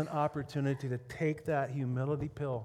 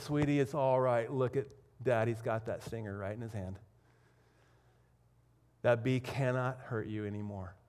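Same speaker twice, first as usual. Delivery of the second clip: calming dad, settling lower as he goes; acted gentle reassurance; reassuring father; 4 semitones lower than usual. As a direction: soothe a frightened child, easing down. Father voiced calming his frightened daughter.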